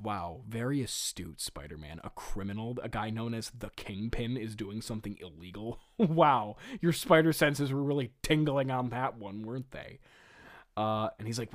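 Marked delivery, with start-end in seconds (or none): 0.0-10.0 low, soft deadpan mock praise; dry mocking admiration; sarcastic. Real, not acted. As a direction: feign being impressed, drily. Mocking Spider-Man's obvious deduction.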